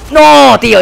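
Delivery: loud, high cry of protest; frustrated yell. Real, not acted. Gamer yelling at his teammate, loud and high. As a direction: shout it in disbelief. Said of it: "No es normal lo que estoy gritando".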